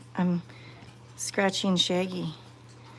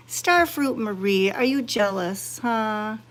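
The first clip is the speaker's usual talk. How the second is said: laughing tease; slower than usual. Real, not acted. Teasing the jealous cat.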